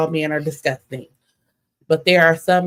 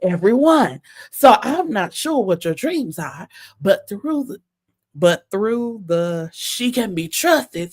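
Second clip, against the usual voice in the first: higher mock lover's voice; imitating him; 4 semitones higher, slower than usual. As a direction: put on his smooth talk, a bit higher. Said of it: "I could see him talking like this".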